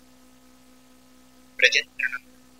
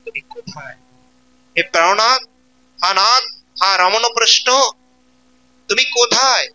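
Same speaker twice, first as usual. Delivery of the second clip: weeping plea; 3 semitones higher than usual. Acted. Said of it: "Radharani কেঁদে কেঁদে বলছেন".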